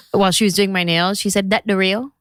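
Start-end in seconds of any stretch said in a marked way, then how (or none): 1.5-2.1 curt question in a mock Vietnamese accent; Vietnamese nail tech accent. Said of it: "accent, this character".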